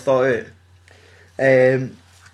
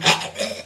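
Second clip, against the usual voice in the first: voiceless mock choking for air; imitated gasping. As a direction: gasp as if the helmet broke. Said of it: "and they're going".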